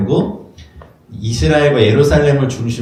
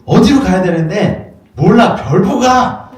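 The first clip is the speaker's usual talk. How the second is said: laughing mock shout; 9 semitones higher, 6 dB louder, slower than usual. Wise men quarrelling, laughing.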